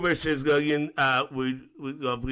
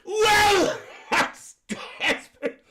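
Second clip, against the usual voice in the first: high, slow, lightly put-on prissy voice; mock prim voice; 4 dB louder, much slower than usual. Pretending to be the viewer, says it in a high mock-prim voice. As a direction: sniff it out like a snob. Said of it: "He can come and be".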